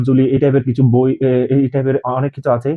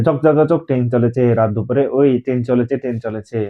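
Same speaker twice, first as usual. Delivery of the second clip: poem recital. Shown as a demonstration. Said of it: "কবিতা আছে".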